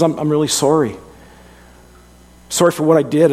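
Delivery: a humbled son owning up; sincere apology. Retold or imitated. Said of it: "he comes to us and he says".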